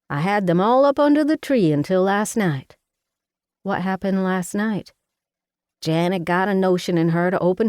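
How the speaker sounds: a bossy Southern mama fussing over her daughter; Mama, Southern mother. Acted. Mama voiced in the story.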